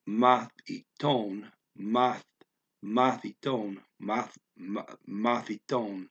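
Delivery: mathiton with math stressed, slowly. Shown as a demonstration. Learner drilling mathiton with math stressed. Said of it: "I'm trying to stress that math".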